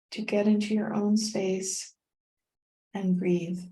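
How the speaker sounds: calm meditation guide with long pauses; unhurried, guiding the listener through each breath; guided meditation. Real, not acted. Continues leading the meditation.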